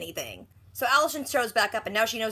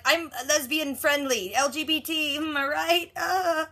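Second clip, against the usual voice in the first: mock panic; 4 semitones higher, slower than usual. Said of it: "She starts panicking".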